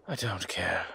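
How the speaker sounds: hushed, unvoiced urgency; urgent whisper. Hiding with the child, he whispers they must go. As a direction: whisper so no one hears. Hushed dismissal while fleeing.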